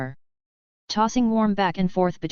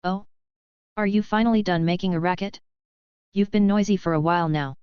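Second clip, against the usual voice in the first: sharp, annoyed. Acted. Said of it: "a sharp, slightly annoyed voice".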